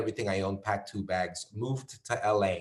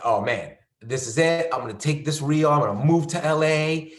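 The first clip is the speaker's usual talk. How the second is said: louder, building hopeful boast; dreamy excitement; 4 semitones higher, 5 dB louder than usual. Retold or imitated. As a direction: pump yourself up about LA. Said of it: "I was like".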